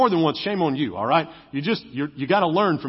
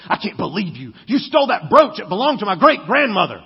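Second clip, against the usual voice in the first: mock outrage; 5 dB louder than usual. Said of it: "she goes".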